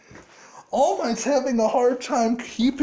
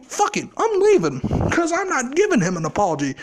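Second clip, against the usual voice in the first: angry rant. Acted. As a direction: vent it like he's sick of explaining. Izuku's in-character angry rant.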